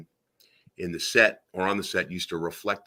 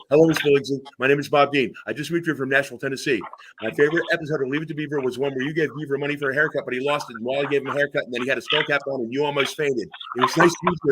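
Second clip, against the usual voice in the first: high, breathless-fan rush of words; starstruck gushing; 6 semitones higher, faster than usual. Retold or imitated. Fan gushing to Miss Billingsley at her table, starstruck. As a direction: gush it all out at a high pitch. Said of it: "I was starstruck".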